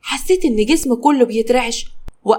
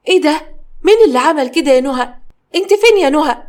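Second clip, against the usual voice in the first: startled fear; 4 semitones higher, faster than usual. Acted. Sister-in-law calls for Noha when the lights die, frightened. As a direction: call out anxiously in the dark.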